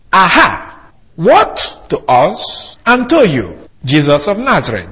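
slow, deliberate, word by word; slow literal Greek rendering. Shown as a demonstration. Preacher gives the congregation the literal Greek, slow and deliberate. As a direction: spell out "What to us and to you" slowly and evenly, each word weighed. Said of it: "a literal translation from the Greek reads this way".

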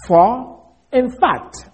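slow, stretched "For", then "in fact" set apart; emphatic IN FACT. Shown as a demonstration. Preacher repeating the phrase for emphasis, emphatic. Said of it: "the emphasis one more time".

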